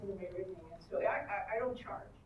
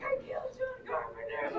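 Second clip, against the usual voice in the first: much higher, gleeful squeal of disbelief; giddy shock. Retold or imitated. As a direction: squeak it out in delighted panic. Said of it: "I'm like".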